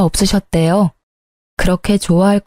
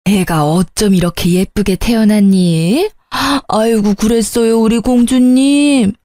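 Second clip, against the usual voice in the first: doting grandmother cooing. Acted. Mother-in-law meeting her granddaughter, lightly voiced cooing.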